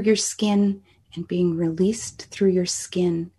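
measured meditation-guide delivery with long pauses; guided breathing exercise. Shown as a demonstration. Voice coach leads listeners through breathing, in a measured guiding voice. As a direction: guide them gently through each breath.

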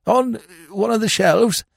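high-pitched wondering question; impressed, wondering. A narrator's reading. Lord struck by the obvious suggestion, impressed. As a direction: echo it as a bright new idea. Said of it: "obviously impressed by this bright suggestion".

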